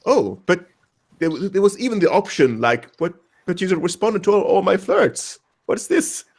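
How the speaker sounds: imitating someone stunned and confused; mock surprise. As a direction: act out her confused indignation, rising to the end. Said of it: "just as surprised as she was".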